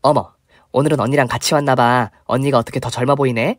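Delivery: lightly voiced gym friend. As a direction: tease her about looking older. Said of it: "친구들이 저한테 그러는 거였어요".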